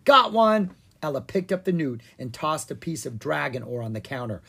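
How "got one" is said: excited. Acted. Ella catching the newt.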